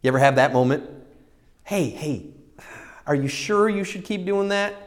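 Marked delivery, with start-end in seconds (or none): 1.6-4.7 soft, hushed prodding; quiet voice of conscience; little nudge. Retold or imitated. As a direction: nag gently like an inner voice, rising into a higher question. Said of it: "He gives me that little".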